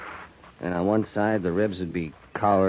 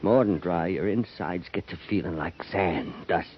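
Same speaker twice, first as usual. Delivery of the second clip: low and hushed, then rising to a strained cry; haunted remembering; 4 semitones lower than usual. Acted. Old soldier recalling wartime thirst to Drury, haunted. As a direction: drift into the memory until it grips him.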